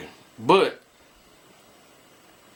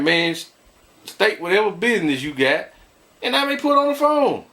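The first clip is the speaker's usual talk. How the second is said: demanding; 4 semitones higher than usual. Retold or imitated. Demanding caller state business.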